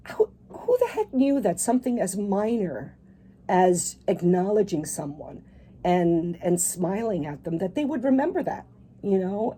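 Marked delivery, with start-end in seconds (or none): 0.1-5.4 crying while speaking. Real, not acted. Tearful guest still crying.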